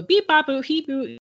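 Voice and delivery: lightly imitated high robot beeps; robot noises. Storyteller copying the kid still playing next door, robot noises. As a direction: toss off a kid's robot beeping. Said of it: "like, robot noises".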